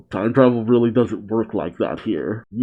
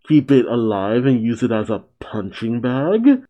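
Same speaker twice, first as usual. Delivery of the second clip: lightly voiced mad scientist. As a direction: lightly play the disgusted mad doctor. The speaker voices a character while reading manga.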